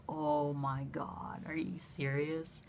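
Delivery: slow, hushed disbelief; stunned disbelief. Retold or imitated. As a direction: draw it out softly, as if stunned. Acted reply to news of delivery.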